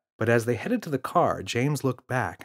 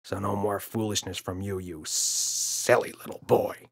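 louder stern rebuke, slowing at the end; irritated father; 3 semitones higher, 5 dB louder than usual. Acted. Father scolding son in the car. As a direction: put the kid firmly in his place. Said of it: "glowered and said".

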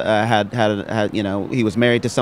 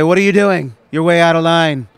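stern scolding; 5 semitones higher, 4 dB louder than usual. Pretend. Mock stern parent scolding.

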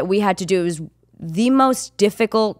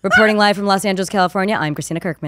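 upbeat news reporter read; 2 semitones higher than usual. Pretend. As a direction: sign off like a TV reporter. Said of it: "do, do the thing".

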